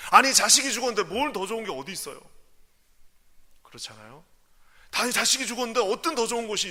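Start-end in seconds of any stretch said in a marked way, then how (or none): 0.1-2.2 louder protest; indignant. Real, not acted. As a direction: challenge the empty comfort.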